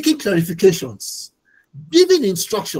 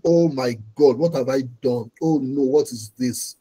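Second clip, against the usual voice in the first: low, dismayed groan of regret; imitating a man in despair, voice dropped low; despairing lament; 6 semitones lower than usual. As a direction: sink the voice low in dismay, as if head against the wall. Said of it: "he's putting his head on the wall and saying".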